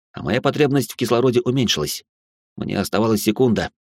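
usual speaking voice

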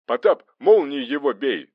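loud, high battle order; urgent shout to a fighting partner. A narrator's reading. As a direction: yell the attack command. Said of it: "снова закричал Захаров".

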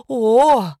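drawn-out cry that slips out; involuntary scream. A narrator's reading. Narrator joins the women's yelling, involuntary cry. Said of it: "невольно присоединилась к ним я".

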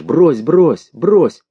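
high, swooping repeated cries; desperate shouting. A narrator's reading. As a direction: plead at the top of your voice. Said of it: "Отчаянно, на весь Воронеж".

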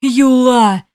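an imp yelling in alarm; calling out. A narrator's reading. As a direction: shout his friend's name in panic. Imp calls dying friend.

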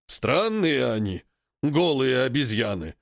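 slow snorting ape voice. Acted. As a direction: snort it out dismissively. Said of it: "фыркнул вожак". (фыркающий голос вожака)

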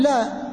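"لا" with a thin, light lam. Shown as a demonstration. Teacher demonstrates the light lam with fatha. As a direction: say "لا" with the lam kept light and forward. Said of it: "فنقول".

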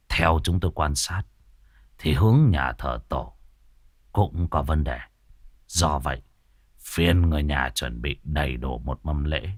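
calm and serious, like a master planning; lightly voiced Tam Vâu. (giọng thầy pháp trầm, nghiêm túc)

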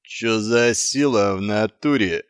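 slow thuggish drawl; lazy street dog asking; Krutoy voice. A narrator's reading. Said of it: "поинтересовался Крутой". (медленный блатной голос Крутого)

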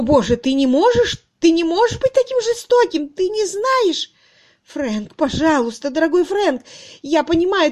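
very high, loud sobbing plea; an old woman begging her cruel lover; desperate begging. A narrator's reading. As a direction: beg him through tears. She begs desperately.

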